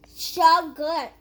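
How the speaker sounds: talking through a mouthful; chewing noisily. Real, not acted. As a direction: mouth full of food. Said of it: "Chew with your mouth closed".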